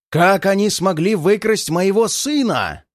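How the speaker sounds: furious royal outburst, voice quivering; shaking with anger. Acted. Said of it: "его голос дрожит от ярости".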